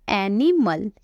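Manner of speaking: एनिमल spoken as a careful model word; model pronunciation. Shown as a demonstration. Teacher answering her own question, careful pronunciation demo. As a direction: sound out एनिमल clearly for learners. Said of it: "उसे हम बोलते हैं क्या?".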